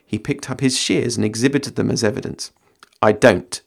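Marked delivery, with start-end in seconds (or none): 3.0-3.6 grim Gandalf. Acted. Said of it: "said Gandalf grimly".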